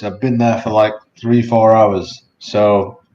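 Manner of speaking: mumbling with a numb mouth after the dentist. Real, not acted. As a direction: talk through lips you can't close. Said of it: "here's me mumbling right now".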